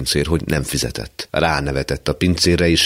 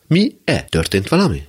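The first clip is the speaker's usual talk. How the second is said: startled; 6 semitones higher than usual. Acted. Startled question.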